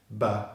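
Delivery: "ba" as a short, low schwa syllable; B plus schwa. Shown as a demonstration. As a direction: say "ba" with a neutral vowel. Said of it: "the B consonant sound and the schwa".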